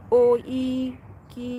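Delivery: hesitant, syllable by syllable; sounding out a name. Real, not acted. Streamer puzzling out a viewer's name, haltingly. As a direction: read an unfamiliar name haltingly. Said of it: "พี่ก็อ่านบ่ออก".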